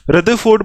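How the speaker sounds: "रदरफोर्ड" as "rudda-ford", middle r dropped; silent r. Shown as a demonstration. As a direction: leave out the r before f in "रदरफोर्ड". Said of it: "आर को silent कर दो".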